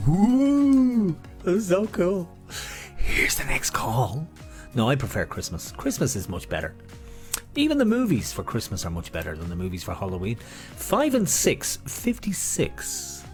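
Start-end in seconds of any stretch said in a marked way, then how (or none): 0.1-1.2 high loud whoop; excited whoop. Real, not acted. Cheering the soundtrack. 10.4-13.2 bingo caller. Acted. Bingo call drawn out.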